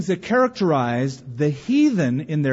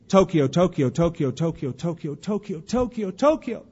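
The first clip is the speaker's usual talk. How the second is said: put-on boy's intense prayer; 2 semitones higher than usual. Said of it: "the little boy would say".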